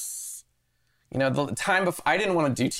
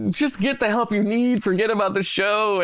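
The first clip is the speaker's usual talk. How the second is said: mock producer; 9 semitones higher, 4 dB louder than usual. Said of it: "crying, being like".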